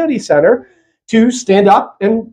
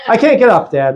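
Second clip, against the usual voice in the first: laughing Rachel. Pretend. Voicing Rachel amused.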